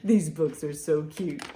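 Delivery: ordinary delivery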